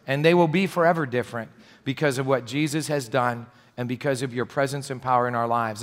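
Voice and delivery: soft, reverent prayer voice, growing hushed; pulpit prayer. Real, not acted. Pastor praying over the congregation, soft and reverent. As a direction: pray for the congregation, soft and devout.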